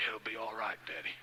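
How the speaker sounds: softly imitating a comforting child; hushed, tender consoling; gentle reassurance. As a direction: soothe Daddy quietly, voice sinking. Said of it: "she patted me on the leg".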